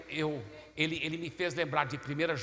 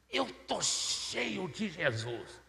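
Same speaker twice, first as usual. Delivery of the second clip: slow, drawn-out stress on "cheio"; awed conviction; much slower than usual. Retold or imitated. Inner realization acted with emphasis. ("cheio" arrastado, com convicção)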